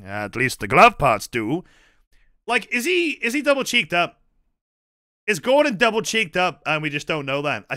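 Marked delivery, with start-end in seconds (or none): 0.0-1.6 G-Man quote. Retold or imitated. Quoting the G-Man line.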